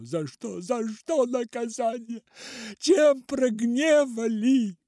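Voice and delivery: a grieving father crying out to heaven; despairing lament. A narrator's reading. Father wails at heaven, building despair.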